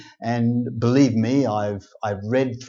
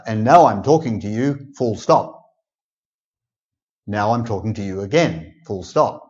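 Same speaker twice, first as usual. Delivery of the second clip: mock reading out full stops. Shown as a demonstration. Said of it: "we don't say".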